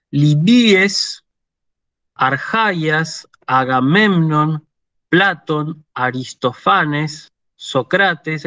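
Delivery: Greek names with next-to-last stress, PLA-ton, a-ris-to-FA-nes; deliberate citation, penultimate syllable stressed; reading Greek examples. Shown as a demonstration. Greek teacher reads names as said in Greek, careful demonstration. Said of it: "en griego se dice".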